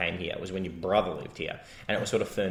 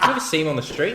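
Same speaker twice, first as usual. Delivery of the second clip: higher, incredulous ask; shocked question; 6 semitones higher, 4 dB louder, much faster than usual. Retold or imitated. Retelling to a friend, a shocked incredulous question. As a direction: ask it like you can't believe it. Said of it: "I was shocked".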